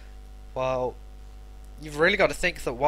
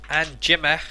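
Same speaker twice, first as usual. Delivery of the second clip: northern accent; 5 dB louder than usual. Shown as a demonstration. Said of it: "I'm always gonna say it in a northern accent".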